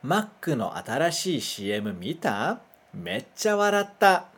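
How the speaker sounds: "Mac no atarashii C M mita? Meccha waratta." read slowly in careful Japanese; teacher reads "Mac no atarashii C M mita? Meccha waratta." for the class to repeat; "Mac" as "makku", "C M" as "shii emu"; slow Japanese model sentence. Shown as a demonstration. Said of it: "lê junto comigo".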